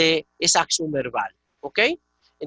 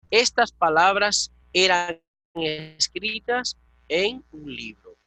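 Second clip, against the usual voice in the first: slow, deliberate, every word weighed; slow model translation; slower than usual. Shown as a demonstration. Teacher modelling the translation for a Greek student, slow and deliberate. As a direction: spell out the translation slowly for the student. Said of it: "Sencillamente así".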